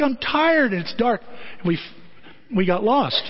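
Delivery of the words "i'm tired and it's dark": higher fed-up whine; worn-out driver venting; exasperated complaint. Retold or imitated. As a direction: spit it out like you're at the end of your rope. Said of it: "I'm ready to break the steering wheel".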